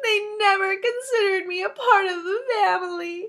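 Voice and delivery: sobbing, tearful crying, pitched high. Cinderella, left behind when the girls go to the ball, Cinderella crying.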